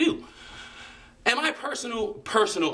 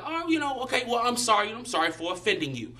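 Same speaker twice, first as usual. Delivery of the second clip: mock apology; 6 semitones higher than usual. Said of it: "And you be like".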